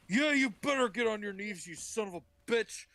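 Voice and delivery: high, hammed-up angry ranting; mock wrathful threat. God about to mark Cain, mock wrath.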